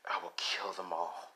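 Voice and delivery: soft, slowed-down threat; low-key vow, voiced and measured; menacing inner thought. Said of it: "She's thinking in her head".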